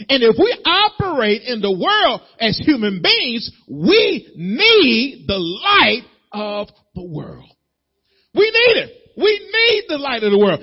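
high, loud preaching push; preaching at full force. Acted. Preacher urging his church that they need the light. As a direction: drive it home to the congregation.

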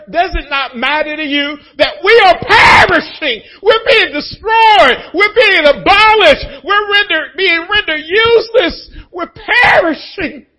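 high wailing shout, slow and desperate; terrified disciples wailing over the storm; panicked cry. Retold or imitated. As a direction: cry out like you're going under.

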